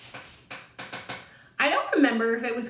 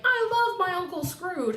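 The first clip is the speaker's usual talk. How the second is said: mock adoring nephew; 9 semitones higher than usual. Nephew voiced in a retelling.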